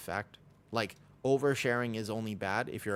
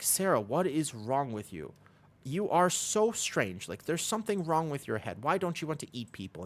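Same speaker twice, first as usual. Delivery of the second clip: baffled parents; 5 semitones higher than usual. Retold or imitated. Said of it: "they're like".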